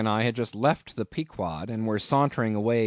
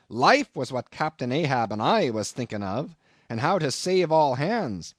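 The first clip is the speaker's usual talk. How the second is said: higher, forceful seafarer's recollection; impassioned old sea captain; 5 semitones higher than usual. Acted. Seaman recalling a storm to his shipmate, impassioned. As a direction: argue it like a fired-up old whaleman.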